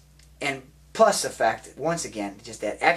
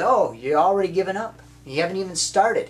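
challenging coach; 5 semitones higher, 4 dB louder than usual. Retold or imitated. Acting out coach challenging player.

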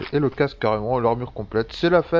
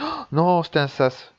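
surprised dismay; 4 semitones higher, 4 dB louder than usual. Real, not acted. Gamer finds he entered an airlock.

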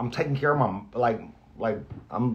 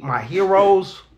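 choked up; 5 semitones higher, 4 dB louder, slower than usual. Real, not acted. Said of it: "I'm gonna tear up".

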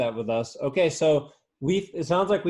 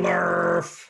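comic nonsense word; 3 semitones higher than usual. Acted.

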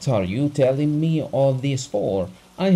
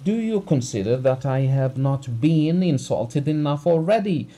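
raised furious voice; angry shouting; 4 semitones higher, 4 dB louder than usual. Acted. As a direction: shout him down in rage. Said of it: "he shouted".

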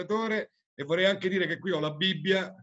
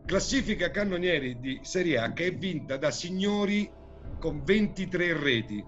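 showy game show host. Acted. Quiz host reading question.

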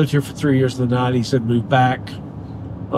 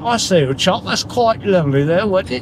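English accent; 4 semitones higher than usual. Shown as a demonstration. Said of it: "when you're in English, you go".

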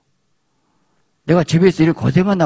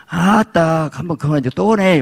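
irritated husband; 6 semitones higher than usual. Acted. Husband complaining his wife is nagging again. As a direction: grumble that it's starting again.

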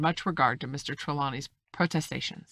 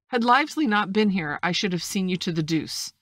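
mildly indignant, louder and higher at the start; heated cry; 4 semitones higher, 6 dB louder than usual. A narrator's reading. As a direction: exclaim with a touch of anger. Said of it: "cried the squire".

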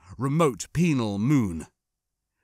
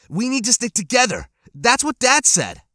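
insistent voice breaking; 11 semitones higher, 6 dB louder than usual. A narrator's reading. Boy insists, voice breaking high.

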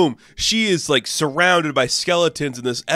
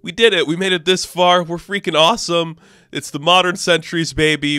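hyped-up rallying; 4 semitones higher than usual. Retold or imitated. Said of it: "But Tyr's like".

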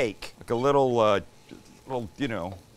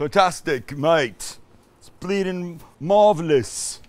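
hammed-up British accent, louder; 4 semitones higher, 4 dB louder than usual. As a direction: play the enthusiastic Brit, accent and all. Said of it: "Say it how the Brits would say it".

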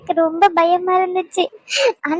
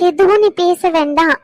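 firmer, more forceful request; insistent hushing. Acted. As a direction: cut them off, insist on silence. Repeats the request, insisting on silence. (வலியுறுத்தி அடக்கும் குரலில்)

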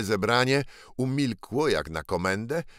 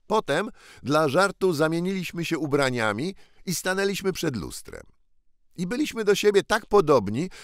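lightly voiced earnest boy, higher in places; a boy urging another to remember; ragged prince's voice; 7 semitones higher, 3 dB louder than usual. Ragged boy reminding Tom of their meeting, lightly voiced.

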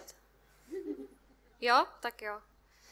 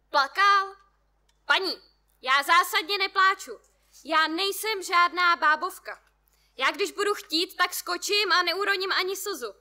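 loud, higher yelling from the balcony; shouting back; 5 semitones higher, 6 dB louder than usual. A narrator's reading. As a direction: yell back defiantly while balancing. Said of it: "Křičí na mě zpět". (muž křičí zpět z balkonu)

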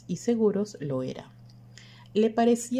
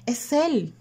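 high, sudden exclamation of recognition; raised, urgent outburst; excited cry; 8 semitones higher, 4 dB louder than usual. A narrator's reading. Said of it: "gritó Mercedes".

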